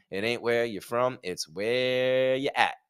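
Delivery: slow, soft quoted rap line; a rapper's line. Retold or imitated. Quoting a rapper to the viewers, slow and soft. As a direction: drawl the rap lyric out slowly and quietly. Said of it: "come on".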